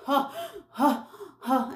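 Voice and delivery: mock panting huffs; imitated hard breathing. Wife searching the hotel room, mock panting. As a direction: puff out short breaths like she's worn out. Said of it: "And she's breathing hard".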